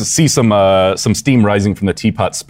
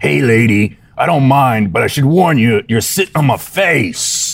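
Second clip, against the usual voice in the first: coarse, rough-edged, gruff voice; 4 semitones higher than usual. Narrating a scene and voicing the creature in the chair, in a rough voice. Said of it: "hear a rough voice".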